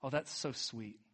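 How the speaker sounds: softly cooed imitation of tenderness; mock tender. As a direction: say it softly, imitating a touched onlooker. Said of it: "like a tender moment".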